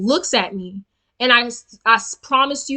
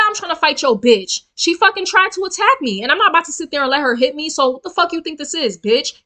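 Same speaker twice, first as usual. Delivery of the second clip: raised, heated voice telling him off; confrontational retort; 2 semitones higher than usual. Retold or imitated. To the man defending his girlfriend, heated retort. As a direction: snap back at the man towering over her. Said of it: "he came to me and he was like".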